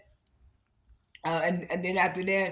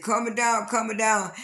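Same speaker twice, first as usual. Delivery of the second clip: higher, louder call to calm it down; retold calming call; 4 semitones higher, 4 dB louder than usual. Host telling the two feuding women to calm it down, a raised retold call. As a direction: step in firmly to cool the fight, as retold.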